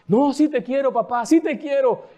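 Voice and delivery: little daughter voice. Retold or imitated. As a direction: play the pleading little girl. Daughter answers father in story.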